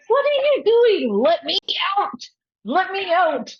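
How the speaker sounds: high, loud, insistent alter voice; urgent demand. Retold or imitated. Alter Jules demanding release, high and loud.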